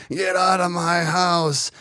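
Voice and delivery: put-on slow, high old-man grumble; grumpy old man. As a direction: croak it out like a cranky old man. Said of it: "That's what old people say".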